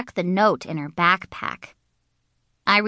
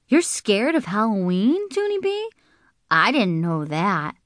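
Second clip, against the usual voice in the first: surprised Herbert; 2 semitones higher than usual. Acted. Herbert voiced.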